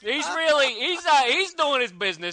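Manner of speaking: mock cabbie with a New York accent. Hired New York cabbie describing comic characters, put-on New York accent. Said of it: "some cabbie from New York".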